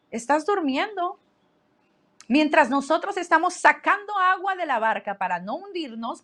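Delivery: retold reproach. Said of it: "llegaron gritándole al maestro".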